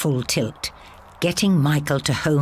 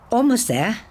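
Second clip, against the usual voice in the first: shaky voice; 8 semitones higher than usual. A narrator's reading. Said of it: "the shake in her voice".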